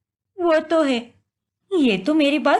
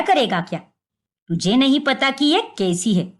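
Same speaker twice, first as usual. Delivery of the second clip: scornful mother-in-law; 3 semitones lower than usual. Acted. Mother-in-law rebukes son.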